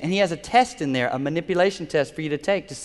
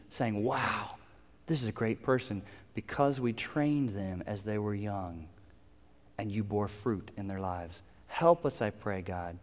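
prayer. Real, not acted. Preacher to God for parents, earnest prayer. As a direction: pray sincerely on behalf of the parents. Let's pray together.

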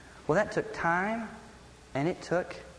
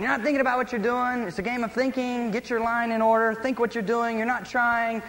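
higher-pitched retold parental scolding; harsh scolding; 5 semitones higher than usual. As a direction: mildly re-enact getting on to the kids. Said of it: "I began to speak harshly to them".

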